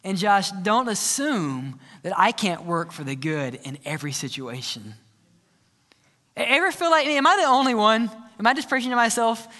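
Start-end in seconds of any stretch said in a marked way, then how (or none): 0.0-4.9 low, slow, softer gentle rebuke; lightly voiced fatherly God. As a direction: speak down calmly as God correcting. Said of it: "And God says".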